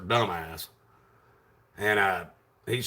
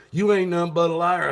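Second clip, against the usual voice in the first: higher, louder mock accusing voice; mimicked accusation; 8 semitones higher, 5 dB louder than usual. Officer accusing the defendant in the office, mimicked indignation. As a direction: throw it out as an imitated insult.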